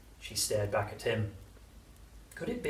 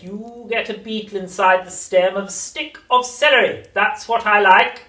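witch voice; 11 semitones higher, 15 dB louder than usual. A narrator's reading. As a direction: cackle it like an old witch.

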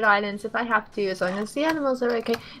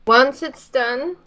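"Once" stretched slowly and louder; stress on once; 7 dB louder, much slower than usual. Acted. Echoing a friend's big emphasis, heavy stress on "Once". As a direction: punch "Once" hard, then slow down. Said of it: "Big emphasis on, on the word once".

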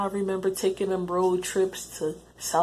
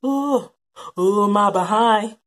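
mock crying; 3 semitones higher, 7 dB louder, slower than usual. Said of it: "We just to cry".

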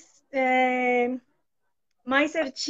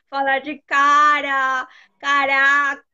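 louder, laughing and a little flustered; embarrassed laugh; 7 dB louder, slower than usual. Real, not acted. Learner admits on the show she can't say slang, laughing. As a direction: blurt the slang word, then laugh it off.

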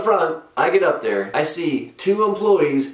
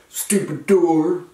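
imitating dazed woman; slower than usual. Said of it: "and she says".

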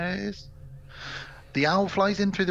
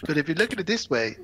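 theatrical Goblin King. Acted. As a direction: stretch it out with mock mystery. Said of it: "he gives her a".

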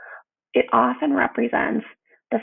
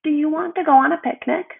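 bright, higher Norris greeting; cheerful Norris; 5 semitones higher than usual. Acted. Narrator voices dancing Norris meeting Elba, higher and eager. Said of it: "he said".

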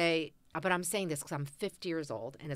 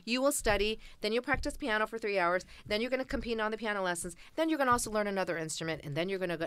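lightly voiced parent, higher-pitched; parent laying down rules; 5 semitones higher, faster than usual. Korean parent dictating a child's schedule, lightly imitated. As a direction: reel off the demands like a strict parent. Voicing parents' rigid list of orders.

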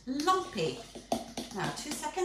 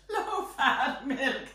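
slow, louder, drawn-out mockery; mocking; 4 dB louder, much slower than usual. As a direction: draw it out with amused disdain. Mocks low-fat milk, repeating it.

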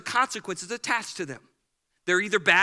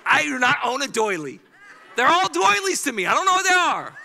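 hammed-up wife denying doilies; 2 semitones higher, 5 dB louder than usual. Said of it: "My wife's like".

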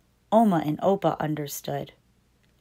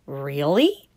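mother asking; 5 semitones lower than usual. Acted. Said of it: "asked the baby's mother".

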